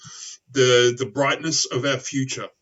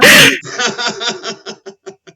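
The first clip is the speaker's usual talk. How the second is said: big loud laugh; hearty laugh; 10 semitones higher, 11 dB louder than usual. Real, not acted. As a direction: burst out laughing. Laughing after the chant.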